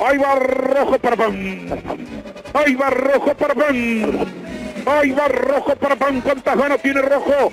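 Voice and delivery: insistent, chanting penalty build-up; impassioned football commentary; live play-by-play. Real, not acted. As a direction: hammer out each phrase as the kicker runs up.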